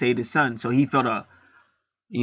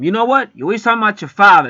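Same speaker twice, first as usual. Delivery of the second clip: woman lashing out; 8 semitones higher, 7 dB louder than usual. Retold or imitated. Girlfriend lashing back at him.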